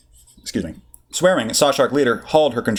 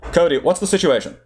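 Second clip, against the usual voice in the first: put-on Core Worlds accent; 8 semitones higher than usual. Obi-Wan asks.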